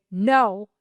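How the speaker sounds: stern puppy training; firm command. Shown as a demonstration. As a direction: say it with authority. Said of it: "use a firm voice and say".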